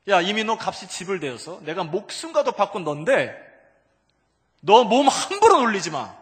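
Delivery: loud, high scolding rising in force; stern divine declaration. Acted. Lord scolding his ransomed believer, loud declaration. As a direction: lay down the law at full voice. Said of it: "주께서 사탄에게 그렇게 선포하며".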